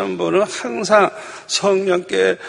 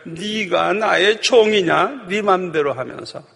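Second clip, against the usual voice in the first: retold rebuke; 3 semitones higher than usual. The Lord questions a wilful servant, reproachful. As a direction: spell out the reproach, mildly stern. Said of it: "책망을 하시는데".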